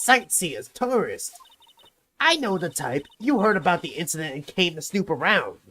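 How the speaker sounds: a lightly voiced cranky old security lady. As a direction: shoo off nosy visitors, old and grumpy. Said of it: "the old lady voice".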